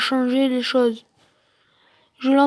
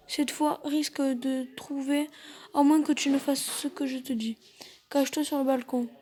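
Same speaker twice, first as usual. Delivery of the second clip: urgent hushed voice; 5 dB quieter than usual. Acted. Intruder returns, urgent instructions.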